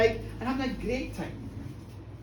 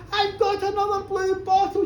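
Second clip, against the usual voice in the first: high, loud, thrilled announcement; excited news; 9 semitones higher, 5 dB louder than usual. Acted. Husband telling his wife the news, thrilled and loud. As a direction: burst out with the good news. Mike overjoyed telling Molly.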